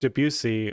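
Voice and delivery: "Debussy" stressed on its second syllable; retold pronunciation, "bu" emphasized in "Debussy". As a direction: quote "Debussy" with weight on the middle syllable. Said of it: "put the emphasis on the second syllable".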